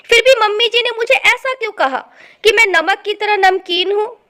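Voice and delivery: loud, hurt complaint to herself; tearful. Acted. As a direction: protest as if wronged and upset. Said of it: "सालनी रोते हुए अपने कमरे में चली जाती है और सोचती".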